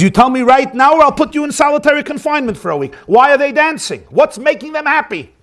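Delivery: mock angry warden shouting; angry demand. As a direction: bark it at the inmate. Warden threatens the inmate.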